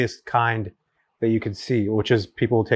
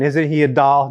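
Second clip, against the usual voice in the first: imitated Upper Midwest accent, a bit louder; Minnesota accent; 3 semitones higher, 5 dB louder, slower than usual. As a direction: put on her North Dakota accent. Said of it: "incredible accent".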